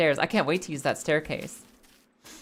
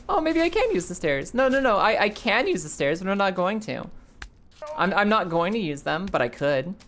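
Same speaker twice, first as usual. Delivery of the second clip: Nate teasing. Retold or imitated. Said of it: "And Nate's like".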